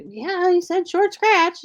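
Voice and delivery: put-on high, drawn-out New England accent; slow, high-voiced imitation of mom's regional accent; imitated mom's accent. Retelling mom's reply in accent.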